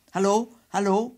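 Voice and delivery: loud, high telephone hello; shouted. A narrator's reading. Willemse grabbing the phone, shouted. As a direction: shout into the dead receiver. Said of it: "schreeuwde hij".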